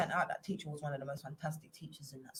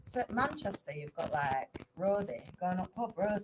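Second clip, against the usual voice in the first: Manchester accent; 2 semitones higher than usual. Shown as a demonstration. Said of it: "About Manchester".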